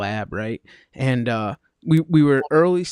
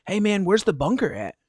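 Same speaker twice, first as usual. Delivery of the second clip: harbor junkie; 6 semitones higher than usual. Retold or imitated. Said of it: "he's like".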